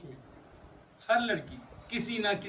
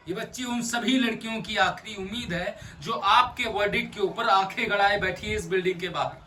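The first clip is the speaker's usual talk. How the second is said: impassioned plea; 3 semitones higher, 5 dB louder than usual. Acted. Lawyer urges judge for all girls, impassioned plea. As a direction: press the plea loudly on the judge.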